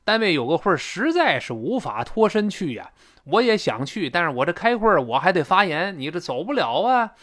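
mildly protesting husband's excuse; lightly acted defensive explanation; husband explaining himself. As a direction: plead your case a little. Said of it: "老公呢就解释".

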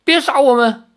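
high, loud, frightened begging in a different voice; crying plea. Acted. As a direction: beg for your life through tears. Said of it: "其中一名少女哭着说". (哭着惊恐哀求)

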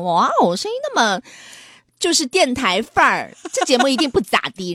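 lightly put-on announcer tone, slowed; mock radio voice. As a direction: imitate a smooth radio host.

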